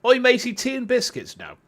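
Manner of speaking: mock British cheer, played for laughs; stereotypical British. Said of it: "a really stereotypical British voice".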